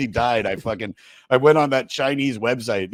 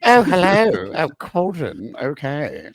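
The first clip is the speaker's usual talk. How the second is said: teasing oh hello; 4 semitones higher, 3 dB louder, slower than usual. Acted. Teasing reaction to girl's voice.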